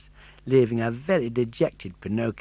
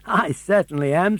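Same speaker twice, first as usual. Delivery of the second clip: high, chuckling bird voice; chuckling pigeon; 6 semitones higher, 4 dB louder than usual. Acted. The pigeon smugly agreeing Pinocchio is a simpleton, chuckling. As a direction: answer with a smug chuckle. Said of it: "said the pigeon with a chuckle".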